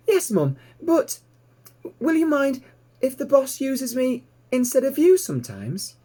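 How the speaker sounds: put-on high, bright young piglet voice, thrilled; piglet Babe, delighted. A narrator's reading. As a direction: squeal it out like an excited little pig.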